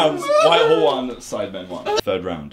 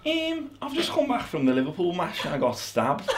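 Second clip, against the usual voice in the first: put-on Scouse accent; 5 semitones higher than usual. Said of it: "The next accent is Scouse".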